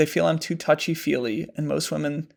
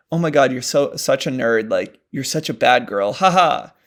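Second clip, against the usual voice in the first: exaggerated jokey tease; 5 dB louder than usual. Shown as a demonstration. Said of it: "Okay, I'm exaggerating".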